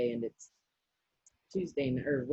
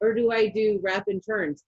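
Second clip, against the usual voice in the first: questioning; 6 semitones higher, 6 dB louder than usual. Retold or imitated. Retelling question to coworkers.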